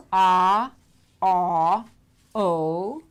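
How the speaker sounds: ah, ah, o said loud and cut short; short vowel demo. Shown as a demonstration. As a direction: punch each short vowel. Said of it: "So that would be".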